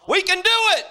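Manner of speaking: high, loud, bold claim; confident preacher bravado. Acted. Preacher boasting to the congregation, loud bravado. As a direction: proclaim it with big confidence. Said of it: "preach and then doubt".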